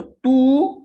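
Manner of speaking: teacher chiding the market line with mock disappointment; mock scolding the market. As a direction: scold the chart like a naughty child.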